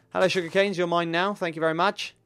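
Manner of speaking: Australian lilt with rising endings; Australian accent. Pretend. Player greets sugar canes as his own, light Australian accent. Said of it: "turning to an Australian while I'm talking".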